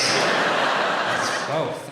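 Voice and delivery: whispered both through laughter; laughing whisper. Shown as a demonstration.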